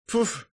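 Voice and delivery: sharp high scoffing puff; dismissive snort. A narrator's reading. Smug blonde scoffs at him, snorting. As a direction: scoff at his naivety. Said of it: "фыркнула".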